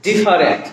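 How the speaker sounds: ডিফারেন্ট said with all three syllables; ডিফারেন্ট in full, di-fa-rent. Shown as a demonstration. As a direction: sound out every syllable of ডিফারেন্ট, middle vowel kept. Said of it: "তিনটা syllable থেকে".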